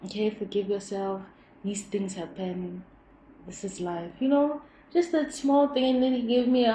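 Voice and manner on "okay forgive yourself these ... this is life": reassuring. Retold or imitated. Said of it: "he also affirmed".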